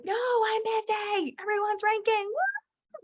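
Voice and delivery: busy hype queen, giddy; giddy brush-off. Retold or imitated. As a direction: wave her off, too busy. Hype queen ignoring upline.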